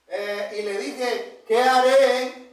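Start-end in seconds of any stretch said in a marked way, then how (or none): 1.5-2.5 crying out. Acted. Pablo clama al Señor.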